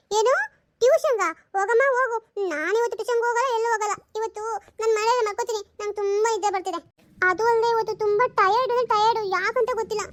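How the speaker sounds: whiny daughter. Acted. Daughter whining to her mother that she won't go to tuition. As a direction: sulk your way out of going to tuition.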